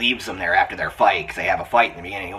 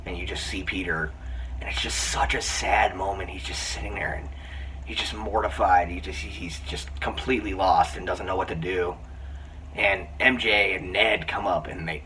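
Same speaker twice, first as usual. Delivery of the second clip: choked up; 5 dB quieter than usual. Real, not acted. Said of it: "try not to get choked up talking about it".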